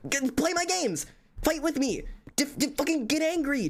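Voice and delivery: whiny plea for a game partner; high pleading whine. Acted. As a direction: beg them to play along, voice soaring. Pleading with friends to debate.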